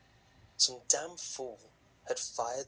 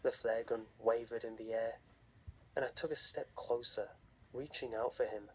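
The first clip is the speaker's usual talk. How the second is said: story narration. A narrator's reading. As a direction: tell it like a campfire horror story.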